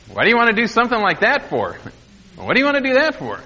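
quick, scornful mock of a rude salesman; fast sneering retold put-down; rude snotty clerk. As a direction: brush them off like a condescending clerk. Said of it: "just being very rude and very snotty".

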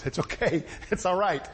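low, reassuring murmur to calm someone; mild, low-pitched soothing; comforting. Acted. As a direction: gently talk someone down. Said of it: "calm him down and comfort him".

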